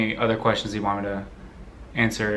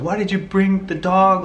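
higher, louder mock yell at sister; retold yelling; 9 semitones higher, 4 dB louder than usual. Yelling at sister for bringing the dog, higher mock yell. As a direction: throw the blame at her. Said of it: "yelling at my sister".

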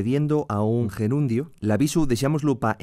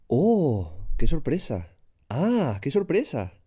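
demonstrated surprise; slower than usual. Shown as a demonstration. Sample exclamations of surprise.

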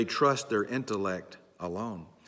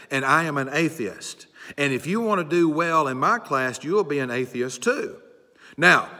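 lightly voiced proud professor addressing his class, louder and higher; atheist professor; 4 semitones higher, 5 dB louder than usual. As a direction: lecture the freshmen as a self-assured professor. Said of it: "he was this professor at the front".

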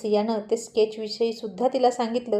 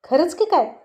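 higher, startled disbelief; bewildered; 6 semitones higher, 4 dB louder than usual. A narrator's reading. Siya to Kirti, mildly bewildered. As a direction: ask it as if thrown off balance. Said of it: "Siya चक्रावून म्हणाली".

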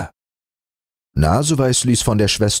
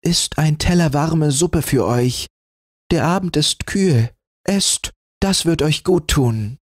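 higher, kindly offering; compassionate; 8 semitones higher than usual. A narrator's reading. Rotnas bringing soup to the old woman, compassionate. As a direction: comfort the poor old woman. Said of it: "sagte sie mitleidig".

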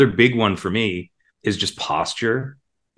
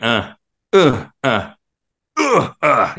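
limp fake effort grunts; 4 semitones higher, 4 dB louder, much slower than usual. Shown as a demonstration. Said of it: "you're not just going".

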